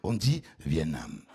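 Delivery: Vietnam with the T swallowed, slow and low; southern Vietnam. Shown as a demonstration. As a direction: say Vietnam without the T. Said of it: "on étrangle le T". (dire Vietnam en étranglant le T)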